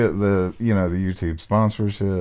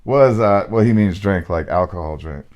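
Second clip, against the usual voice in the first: a louder, hammed-up big man; hammed-up burly man; 4 dB louder than usual. Reader hams up the ghost to his friend, hammed-up burly man. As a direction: puff up the chest and lay it on thick. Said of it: "trying to ham it up a little bit".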